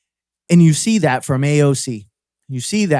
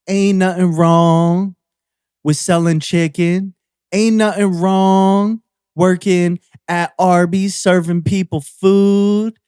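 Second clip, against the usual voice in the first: slow, drawn-out imitation of a Southern accent, a bit higher; mock Southern accent; 4 semitones higher, 3 dB louder, slower than usual. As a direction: put on a lightly exaggerated Southern accent, dragging the words. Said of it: "you got a strong Southern accent".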